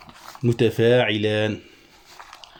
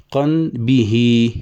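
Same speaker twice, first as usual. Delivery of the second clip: syllable scanning; much slower than usual. Shown as a demonstration. Teacher scanning verse for students, slow drawn syllables. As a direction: chant the foot slowly for the class. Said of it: "فاعل".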